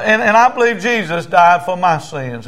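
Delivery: feed the prayer line with force; high, emphatic creed for repeating; leading a prayer. Retold or imitated. Preacher leads prayer for repeating.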